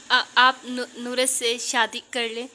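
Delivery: stumbling over each word, slowly; hesitant halting plea, slowed down; a wife haltingly asking her husband to marry again; halting stammer. A narrator's reading. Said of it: "अटकते हुए मदम आवाज़ में बोलते".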